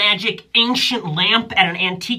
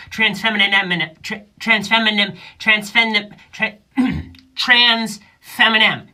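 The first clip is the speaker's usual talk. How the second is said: stumbling over the word. Shown as a demonstration. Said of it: "gonna start a hip-hop career".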